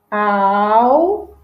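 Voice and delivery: alcançar in long, widely spaced syllables; som de S. Shown as a demonstration. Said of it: "som de S". (alcançar bem devagar, sílaba por sílaba)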